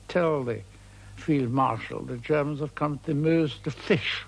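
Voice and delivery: imitating a rude dismissal; mock-curt sarcasm, landing on the last word; rude retort. French general to an aide about the British commander, rudely. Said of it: "very rudely".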